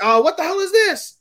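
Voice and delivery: high-pitched imitation of disbelief; incredulous, squeaky retelling of a scolding; mock outrage. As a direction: act out appalled disbelief, voice shooting up. Acted reaction to dirty kanji.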